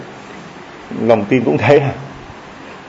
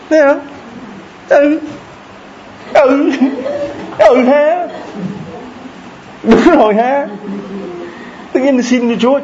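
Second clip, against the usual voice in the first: amused marvelling; 12 semitones higher, slower than usual. Real, not acted. Preacher mock-marvelling, laughing.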